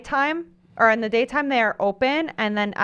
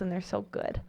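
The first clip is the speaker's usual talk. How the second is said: dropped to a hushed voice; quiet; 3 semitones lower, 11 dB quieter than usual. Real, not acted. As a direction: say it softly, almost to yourself. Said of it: "I don't know why your voice had to change for that last part".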